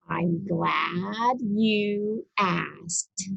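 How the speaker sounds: slow, low and warm, savouring it; pleased, slow reply. Acted. Reader to child listener, a slow pleased reply. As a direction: take your time, glad to answer. Reader answers an imagined question.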